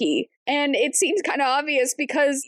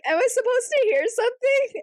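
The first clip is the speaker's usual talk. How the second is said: high mock confused; 11 semitones higher than usual. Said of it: "she's like".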